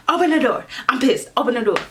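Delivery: retold angry door-banging demand; pissed at the door. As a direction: act out ordering someone to open up. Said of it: "I'm banging on the girl door".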